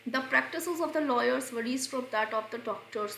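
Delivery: slow, careful read of the sentence; slow dictation. Shown as a demonstration. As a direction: read it out word by word for students. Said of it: "reads example sentence slowly".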